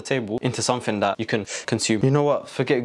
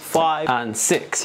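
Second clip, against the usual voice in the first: slow count; 3 semitones higher, much slower than usual. Acted. Counting out pieces slowly.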